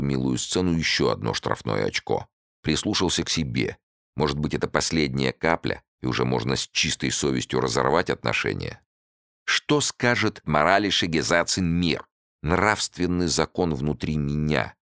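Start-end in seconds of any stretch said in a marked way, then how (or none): none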